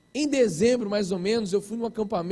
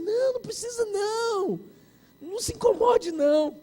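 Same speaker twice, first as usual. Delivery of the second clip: high, hurried-sounding squeal of protest; hammed-up high-pitched polite refusal; mock panicky refusal; 11 semitones higher than usual. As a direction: imitate anxiously begging off. Retold panicky refusal at meeting.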